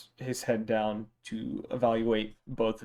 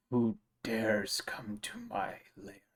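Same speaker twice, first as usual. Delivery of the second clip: deep voice; 7 dB quieter, slower than usual. Acted. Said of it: "you hear a deep voice".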